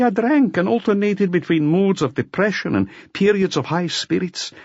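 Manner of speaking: bitter, weary man telling his story; a drunk forger owning up to Maigret; confessing brother. Acted.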